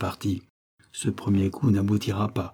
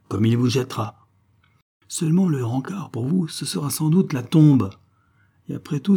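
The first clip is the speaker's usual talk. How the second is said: passionate fury; 3 semitones higher, 4 dB louder than usual. Acted. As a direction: spit out her hatred of the baron, rising to a shout. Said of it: "la bouche tordue par la passion". (colère passionnée, de plus en plus forte et aiguë)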